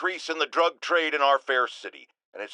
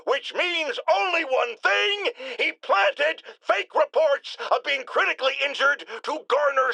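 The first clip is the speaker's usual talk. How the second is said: indignant rant; 6 semitones higher than usual. Acted. Indignant rant after fake injury news.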